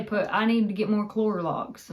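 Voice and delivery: Clorox said "Clor-lox", with an extra L; Granny's pronunciation. Retold or imitated. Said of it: "I've heard her say".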